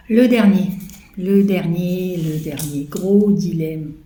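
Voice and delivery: loud, theatrical announcement fading down; dramatic build. Real, not acted. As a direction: announce the big dilemma like a showman. Dramatic announcement of last dilemma. (annonce théâtrale et forte)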